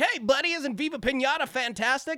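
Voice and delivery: very high, bright, beaming, gushing cheerful voice. Retelling how he acted once cameras rolled, imitating Mario Lopez smiling on camera. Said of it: "he started smiling and saying".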